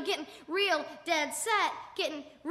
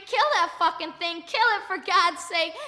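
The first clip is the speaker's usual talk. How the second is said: screaming; 6 dB louder than usual. Acted. Onlooker urging his friend to kill the cat, acted scream. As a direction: yell the order, drawing out the plea. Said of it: "I'm screaming".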